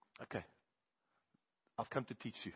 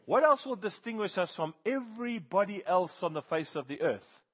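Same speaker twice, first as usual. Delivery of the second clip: higher and louder, climbing through the question; pressing plea; 8 semitones higher, 8 dB louder than usual. Retold or imitated. Moses pressing God about his people, loud pleading cry. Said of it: "Moses says".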